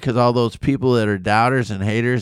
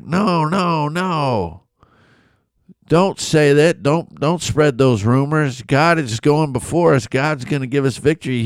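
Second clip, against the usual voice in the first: higher, earnest plea to stop the rumors; insist, raised and pressing, no no no; urgent pleading; 4 semitones higher than usual. Retold or imitated. Caleb and Joshua urging the frightened people, raised and pleading. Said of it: "Caleb and Joshua are like".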